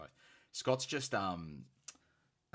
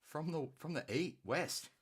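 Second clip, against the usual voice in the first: high, drawn-out hail with swooping vowels; hyped shout-out; 8 semitones higher, slower than usual. Real, not acted. Host hailing a regular viewer in chat, hyped shout-out. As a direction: draw the name out high, like hyping a favourite.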